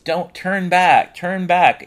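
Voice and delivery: high, loud ghostly squeal; Beans squealing. Retold or imitated. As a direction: wail a warning like a squealing ghost. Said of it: "squealing out his fucking voice".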